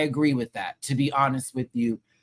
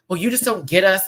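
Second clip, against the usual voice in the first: mock snooty; 5 semitones higher, 5 dB louder than usual. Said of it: "I felt the whole".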